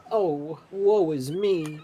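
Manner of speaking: high, slow hammed-up woe; mock damsel lament. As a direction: wail it like a stranded maiden. Player voices disguised woman adrift.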